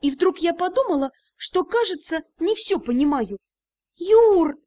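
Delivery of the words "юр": high, drawn-out suspicious call; suspicious drawl. A narrator's reading. Suspicious partner drawing out his name, high and probing. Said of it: "не скрывая подозрительности, протянула я".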